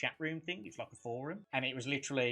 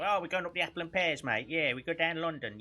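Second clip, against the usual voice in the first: lightly raised London Cockney patter; Cockney accent; 3 semitones higher than usual. Acted. Host showing how London Cockneys talk, Cockney accent. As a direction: put on a chatty Cockney accent. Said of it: "So obviously London Cockneys".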